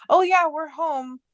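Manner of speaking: high, slow and sing-song friendly answer; bright cheery reply. Retold or imitated. To her aunt, a cheery high yes. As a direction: stretch out a chipper yes.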